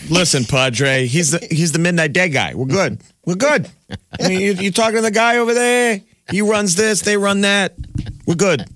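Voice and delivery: high-pitched smooth-it-over act for the priest; mock fixer. Friends talking the padre round, mock-insistent and high. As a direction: play a pushy go-between vouching for someone. Acting out reassuring the angry priest.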